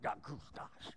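whispered grumble, barely voiced; grumbling under your breath; mumbled under the breath. Shown as a demonstration. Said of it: "mumbling under the breath".

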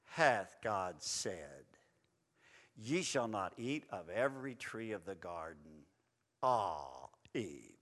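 very low, slow, drawn-out serpent. Acted. Serpent tempting Eve, low and slow. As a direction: hiss it out like the tempter. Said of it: "And he says".

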